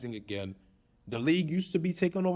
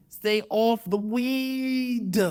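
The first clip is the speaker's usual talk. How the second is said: drawn-out pundit scold; 8 semitones higher, 3 dB louder, much slower than usual. Retold or imitated. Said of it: "my terrible Stephen A. Smith impression".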